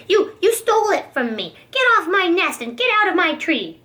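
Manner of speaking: high, indignant demand; angry. A narrator's reading. Maisie ordering Horton off the nest, high indignant scolding. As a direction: drive him off the nest. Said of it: "she sputtered".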